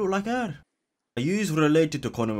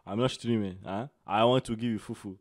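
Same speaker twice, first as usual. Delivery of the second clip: West African accent, played for laughs; put-on West African accent. Streamer asking a stranger if he's from Ghana, put-on West African accent. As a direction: question them in a mock West African accent.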